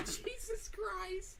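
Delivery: high, breathy laugh, drawn out slowly; laughing in sheer disbelief; disbelieving laugh. Real, not acted. Laughing in disbelief at the friend's huge catch.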